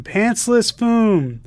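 milk the punchline, slow and high. Retold or imitated. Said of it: "Us again".

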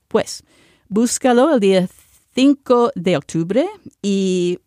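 announcement read in Spanish with a Spanish accent; Spanish speech. Shown as a demonstration. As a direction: deliver the news in Spanish, lively and clear. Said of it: "I just wanna speak in Spanish".

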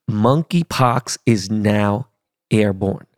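slowed-down repeat. Shown as a demonstration. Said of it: "Let me say that again to you slow motherfuckers".

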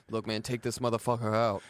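low, hushed coach voice; a hint of a coach giving a pep talk; Coach T impression. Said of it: "that's my Coach T impression".

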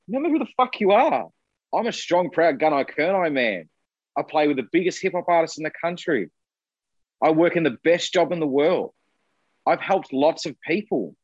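reciting a proud pep talk to yourself; self pep talk. Retold or imitated. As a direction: build yourself up, pitched well above normal.

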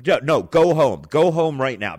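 loud, high-pitched panicked order; freaking out. Retold or imitated. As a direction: imitate alarmed friends sending someone home. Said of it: "People just start freaking out".

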